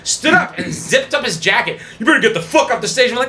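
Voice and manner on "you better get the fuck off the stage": imitated threat. Husband threatens the comedian.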